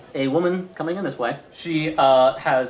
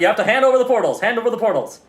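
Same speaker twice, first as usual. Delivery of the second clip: firm, loud order; police demand; 7 semitones higher, 6 dB louder, faster than usual. Acted. Police officers ordering the vendor to surrender, loud. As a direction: insist she hands them over.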